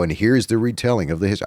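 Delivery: put-on American cowboy twang; retelling line in a mock American accent. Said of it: "I went into American accent".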